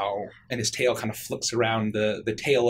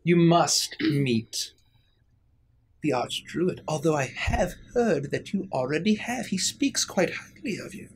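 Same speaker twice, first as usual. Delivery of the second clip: gracious fey lady; 4 semitones higher than usual. Acted. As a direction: savour the recommendation. Fey lady slow and high.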